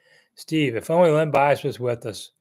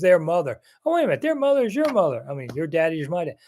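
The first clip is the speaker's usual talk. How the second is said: quick, goofy mock horse voice, jumping up in pitch; imagined horse talking; 4 semitones higher, faster than usual. Reporter jokes what the Derby horse would say, quick mock horse voice. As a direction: rattle it off like a confused horse. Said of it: "He goes".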